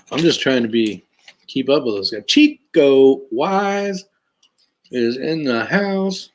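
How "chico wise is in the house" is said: announcer shout-out. Real, not acted. Welcomes a chat viewer.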